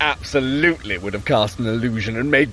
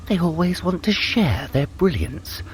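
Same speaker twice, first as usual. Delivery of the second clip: ordinary talk, nothing marked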